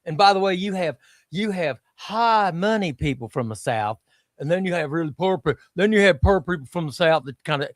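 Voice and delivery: demonstrated American Southern accent. Shown as a demonstration. Showing how Southern drifts toward Australian, Southern accent. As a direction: explain it in a Southern voice, like Blanche. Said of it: "You sounded exactly like Blanche at the start".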